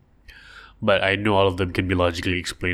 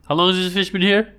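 puzzled fisherman; 10 semitones higher, 3 dB louder, faster than usual. Pretend. Fishermen find a dried fish.

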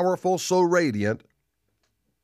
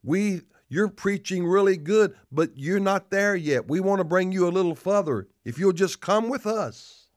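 higher, mock-persuasive letter voice; lightly mimicked church recruiters; imitating Adventist letter-writers; 4 semitones higher than usual. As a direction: coax like a would-be recruiter, pitched up. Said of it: "I get letters from Seventh-day Adventists".

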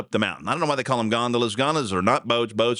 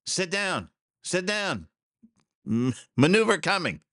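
put-on Italian boatman; Italian accent; 7 semitones higher, slower than usual. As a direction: play the Italian gondolier pleading, pitched up. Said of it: "in his best Italian voice".

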